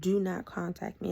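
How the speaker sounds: firm, level warning; serious. Retold or imitated. Woman cutting off her ex, serious. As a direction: lay down the rule in an even voice. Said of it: "I was serious and I said it just like that".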